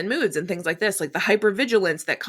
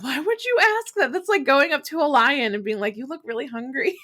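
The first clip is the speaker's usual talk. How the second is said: pitched way up in mock disbelief; incredulous squeak; 7 semitones higher than usual. To a friend asking if she's upset, high incredulous disbelief. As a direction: shoot the voice up high, baffled at the question. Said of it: "And I'm like".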